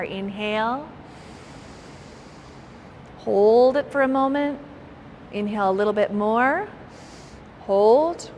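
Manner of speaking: calm, spaced-out meditation cues; guided breathing. Acted. Yoga teacher leading students' first breaths, calm meditation guidance. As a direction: lead them through each breath, unhurried. Leads slow breathing exercise.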